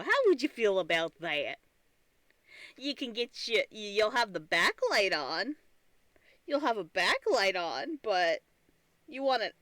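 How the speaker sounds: lightly voiced spiteful computer, teasing with questions; taunting old PC. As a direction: play a PC smugly threatening its owner. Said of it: "where it just one day decided".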